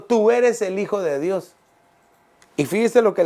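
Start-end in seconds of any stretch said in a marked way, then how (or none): 0.0-1.5 1 mild demon shout. Acted. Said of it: "gritaban diciendo".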